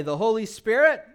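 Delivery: preacher leading a repeat-after-me; call and response. Shown as a demonstration. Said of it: "Everyone say".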